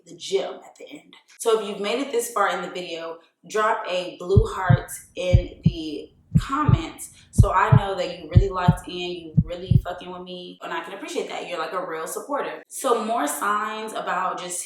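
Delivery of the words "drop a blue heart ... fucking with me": rally the viewers, pump it up; calling out to viewers. Real, not acted.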